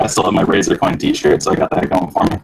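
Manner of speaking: robotic, voice-changer sound. Real, not acted. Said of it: "sorry I sound like a robot".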